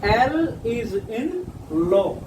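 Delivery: very slow, each word stretched out; slow demo. Shown as a demonstration. Teacher drawing out an example word for students, very slow. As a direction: spell out the example slowly for students. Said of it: "एल की sound आ रही है".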